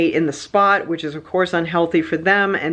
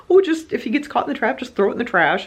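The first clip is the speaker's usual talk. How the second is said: imitating the pest guy; 7 semitones higher than usual. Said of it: "the pest guy was like".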